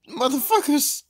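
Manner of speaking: high, loud curse at rivals; angry yell. Real, not acted. Gamer cursing opponents who ganged up, high angry yell. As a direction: spit it out at the other players.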